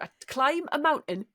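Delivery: slow, careful Geordie attempt; drawn-out Newcastle vowels; Geordie accent. Shown as a demonstration. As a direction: try the advert line in Geordie. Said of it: "a Geordie accent".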